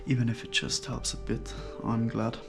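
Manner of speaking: muffled behind a face mask; through a face mask. Real, not acted. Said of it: "I have a mask on my face".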